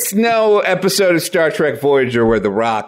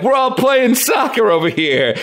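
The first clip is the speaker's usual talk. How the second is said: goofy upbeat Gundam; 5 semitones higher than usual. Acted. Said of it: "some of them will be like".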